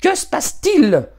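demanding spoilt daughter's shrill cry; shrill girl's demand. Acted. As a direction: voice a spoilt girl, high and sharp. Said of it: "lança-t-elle d'une voix aiguë".

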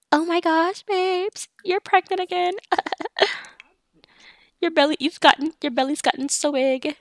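high-pitched gushing character voices; gushing family visit. Acted. Mother and pregnant married daughter catching up, gushing.

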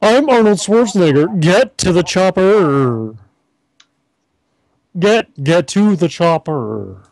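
deliberately inept action-star impression; half-hearted movie-hero voice; Arnold Schwarzenegger. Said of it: "now my impression of a person who doesn't know".

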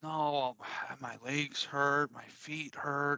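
slow, dragged-out imitated complaint; mock complaining kid. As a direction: sigh and drag it out, lightly imitating a kid. Daughter complaining of pain, retold.

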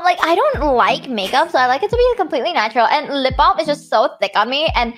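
high, fussy pick-me girl put-on; mock squeamish girl making a show of herself; hammed-up disgust easing into self-satisfied chatter; TikTok pick-me. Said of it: "the one that's like".

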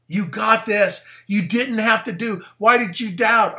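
high, insistent acted encouragement; exhorting. Preacher voices Jesus urging doubting Peter, high insistent exhortation. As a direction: raise the pitch and press the point home.

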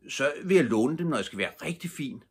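put-on eager little boy. A narrator's reading. Little boy dreaming of borrowing false teeth, lightly voiced. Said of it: "sagde den lille dreng".

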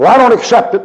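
sudden high, loud angry refusal; furious old man. Retold or imitated. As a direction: shout the refusal back at the preacher. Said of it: "He's furious".

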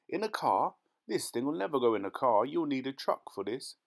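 high-pitched disbelieving question, then firm objection; incredulous. Acted. Farmer doubts it fits a car, incredulous. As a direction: scoff at an impossible plan.

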